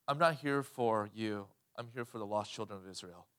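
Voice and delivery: Jesus refusing her. Acted.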